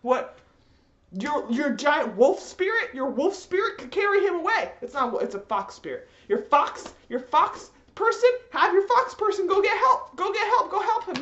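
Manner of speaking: exasperated ranting. Retold or imitated. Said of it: "I'm like".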